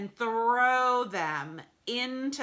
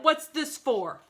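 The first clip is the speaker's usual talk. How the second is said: voiced character; 7 semitones higher, 6 dB louder than usual. Character question in story.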